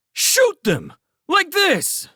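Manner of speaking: high, loud urgent order; shouted command. A narrator's reading. Felix shows the scouts how to fight, shouting. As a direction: yell it to rally frightened men. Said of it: "Felix shouted".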